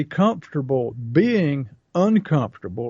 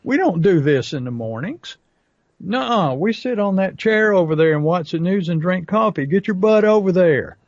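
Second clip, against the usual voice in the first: raised, pushy inner voice scolding you; voice of the subconscious; 3 semitones higher than usual. Retold or imitated. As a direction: play your lazy habit barking orders, higher. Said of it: "your subconscious says".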